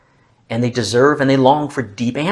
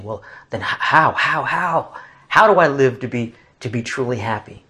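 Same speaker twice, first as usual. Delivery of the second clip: delighted innocence; 2 semitones higher than usual. Acted. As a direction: stumble into it with innocent expectation. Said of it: "a delighted innocence and expectation".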